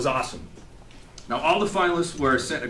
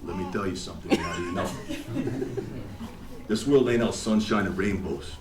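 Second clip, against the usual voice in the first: Rocky Balboa speech. Retold or imitated. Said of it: "it went a little something like this".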